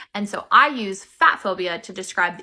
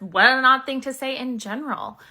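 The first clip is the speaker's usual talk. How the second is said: pointed retort; 4 semitones higher than usual. Shown as a demonstration. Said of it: "or just".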